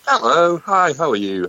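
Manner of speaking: high, chirpy greeting; very fresh. Real, not acted. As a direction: greet them high and full of pep. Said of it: "You are sounding very fresh".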